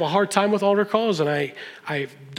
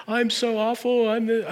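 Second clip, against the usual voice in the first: lightly acted tearful self-reproach; imitated sobbing; 4 semitones higher than usual. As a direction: imitate a sobbing kid without real tears. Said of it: "He is completely sobbing".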